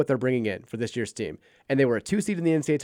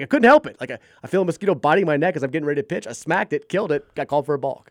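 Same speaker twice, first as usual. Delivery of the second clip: pleading excuse; 3 semitones higher, 4 dB louder than usual. Retold or imitated. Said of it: "it's like".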